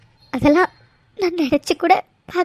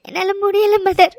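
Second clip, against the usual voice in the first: sobbing. Acted. Daughter weeping to mother.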